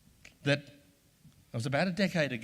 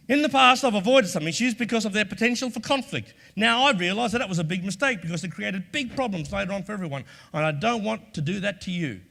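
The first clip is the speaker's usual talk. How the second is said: earnest demo script; 3 semitones higher, 4 dB louder than usual. Shown as a demonstration.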